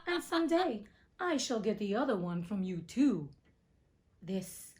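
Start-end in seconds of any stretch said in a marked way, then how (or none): 0.1-3.3 witch voice laughing through the threat. Acted. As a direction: cackle through the promise. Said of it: "laughing at her".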